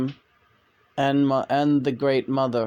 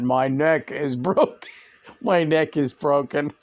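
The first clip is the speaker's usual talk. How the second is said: laughing. Retold or imitated. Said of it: "imagining myself doing that".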